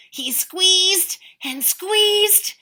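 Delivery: slow, high strained narration; straining. A narrator's reading. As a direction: squeeze the words out.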